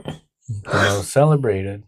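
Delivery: words stretched through a yawn. Real, not acted. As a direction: say it mid-yawn. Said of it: "I was yawning".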